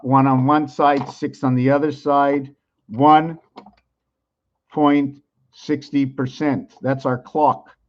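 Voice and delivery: slow, measured explaining; calmed-down voice. Real, not acted. Lecturer settling down to explain the clock, calm voice. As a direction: rein the voice in, taking it slowly. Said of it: "I'll try to calm my voice".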